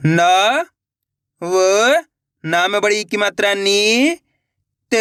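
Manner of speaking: न, व, नी, त called out one at a time with pauses; letter by letter. Shown as a demonstration. Teacher spelling out नवनीत for pupils, letter by letter. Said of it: "एक एक अक्षर का उच्चारण करके".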